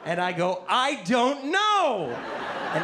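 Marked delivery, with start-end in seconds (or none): 0.7-2.2 high, drawn-out mock yell; rising baffled holler; clueless outburst. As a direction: stretch every word in baffled exasperation. Clueless teen answering his friend.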